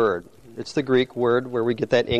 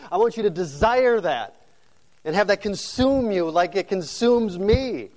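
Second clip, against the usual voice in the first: higher, impassioned urging; Apostle Paul; 5 semitones higher than usual. Acted. Preacher as Paul urging believers to follow him, impassioned. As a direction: plead earnestly in rising waves, pitched up.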